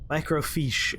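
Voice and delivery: "Microfiche" with the last part said "feesh"; pronunciation demo. Shown as a demonstration. Explaining the term to the audience, "Microfiche" pronounced "micro-feesh". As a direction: say "Microfiche" to rhyme its end with leash. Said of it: "It's pronounced like you wrote it there".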